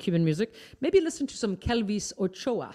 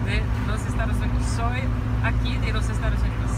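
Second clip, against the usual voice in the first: Spanish with Iowan accent; 3 semitones higher, 5 dB louder, faster than usual. Real, not acted. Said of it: "my attempt at Spanish with an Iowan accent".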